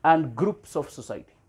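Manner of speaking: very slow, word by word; slow dictation. Shown as a demonstration. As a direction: dictate it slowly for notes. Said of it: "dictation, slow repeat". (धीमे-धीमे लिखवाना)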